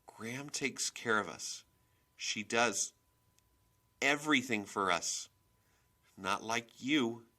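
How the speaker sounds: put-on upset child working up courage to accuse; shaky, halting voice. A narrator's reading. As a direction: push the words out brokenly, then let it build. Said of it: "my voice came out a shaky whisper".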